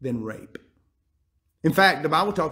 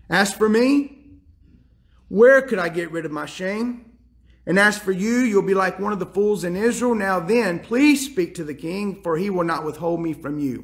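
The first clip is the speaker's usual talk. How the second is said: earnest pleading; 3 semitones higher than usual. Retold or imitated. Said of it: "begging and pleading".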